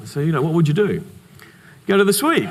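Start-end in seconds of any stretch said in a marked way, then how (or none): 1.9-2.5 laughing answer. Real, not acted. Answers own question, laughing.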